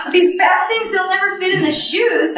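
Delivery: half-laughing at her own swollen feet; laughing retold thought. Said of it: "my first thought is".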